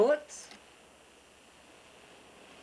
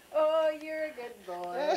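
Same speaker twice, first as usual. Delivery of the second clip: warm praise; 4 semitones higher, slower than usual. Real, not acted. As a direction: praise him gently and slowly. Mother praises child counting.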